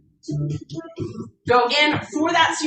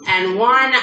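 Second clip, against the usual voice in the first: excited count; 3 dB louder, slower than usual. Real, not acted. Counting down the final reps.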